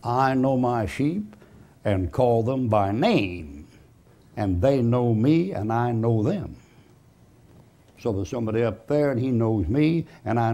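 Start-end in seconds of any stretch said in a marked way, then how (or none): 0.0-6.5 voice of Christ. Retold or imitated. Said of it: "Christ said".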